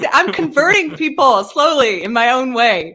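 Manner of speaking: high, laughing quip. Real, not acted. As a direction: joke while still laughing. Laughing remark.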